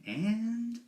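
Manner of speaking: lightly voiced Joker, slow and menacing; a hint of the Joker's drawn-out menace; a mild Joker impression telling the scar story. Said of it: "the Joker a little bit".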